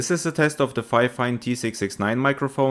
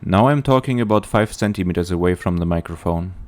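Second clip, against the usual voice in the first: popping p sounds; 5 semitones lower, 4 dB louder than usual. Real, not acted. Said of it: "without a pop filter".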